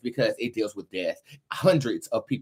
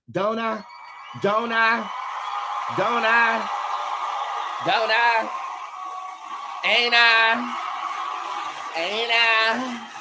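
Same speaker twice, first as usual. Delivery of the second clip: fervent challenge; 12 semitones higher, much slower than usual. Real, not acted. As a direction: hammer each question home. Rhetorical taunt to viewers.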